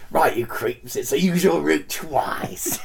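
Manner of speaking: overacted gruff teacher; lightly voiced bossy games master; hammed-up PE teacher. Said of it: "outtakes of overacting".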